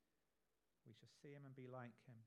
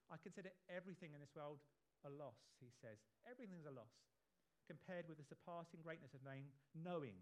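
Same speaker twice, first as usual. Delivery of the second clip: fast, rushed reading of the verse; too quick; 4 dB louder than usual. Shown as a demonstration. Preacher reading Paul's words, rushing through them. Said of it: "I said that too quickly".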